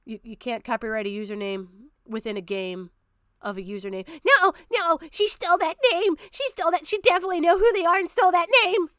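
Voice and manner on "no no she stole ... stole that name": much higher, whiny mock of Levi. Streamer mocks Levi's complaint in a high whiny voice. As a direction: squeak it out like a sulky accuser. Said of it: "didn't say fucking anything other than".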